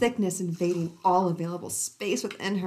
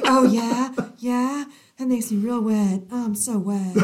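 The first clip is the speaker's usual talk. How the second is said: louder, mock passionate; hammed-up breathy lover; 3 semitones higher, 5 dB louder than usual. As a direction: overplay the eager lover. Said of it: "she's like".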